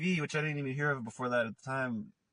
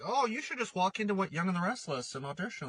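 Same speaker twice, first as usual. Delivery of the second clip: high airy mocking voice; mock naive advice; 6 semitones higher than usual. Imitating a clueless friend, high and mocking. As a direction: send up the people who give lazy advice.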